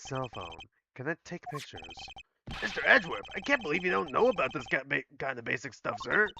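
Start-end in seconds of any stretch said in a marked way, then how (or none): 2.6-6.3 Gumshoe impression. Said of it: "what do you think of my gumshoe impression".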